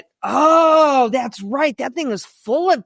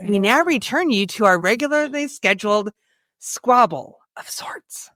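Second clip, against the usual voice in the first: put-on old radio announcer. Mock broadcast return line.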